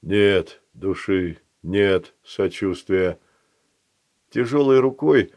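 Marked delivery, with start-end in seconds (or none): 0.0-3.2 slow, measured golem voice; a lightly voiced stone golem; slow stone monotone. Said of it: "произнёс голем".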